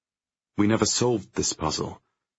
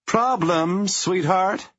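high, loud sneering call; mocking shout; 14 semitones higher, 4 dB louder, much slower than usual. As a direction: shout it across the hall with contempt. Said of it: "Liz shouts across the space".

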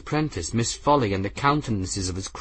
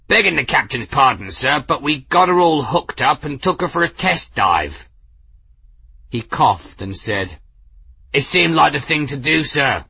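sheepish sailor; 5 semitones higher, 4 dB louder than usual. Acted. Engineer excusing himself to captain.

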